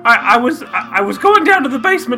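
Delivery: a hint of a flustered old woman calling everyone dear; breathless old biddy, lightly played; fussy old lady. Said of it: "Missus Potter Butter Butterton was just telling".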